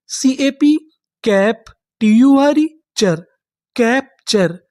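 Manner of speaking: slow, letters then sounds; spelling it out by codes. Shown as a demonstration. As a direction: build the word for students. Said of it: "teacher sounds out word by code".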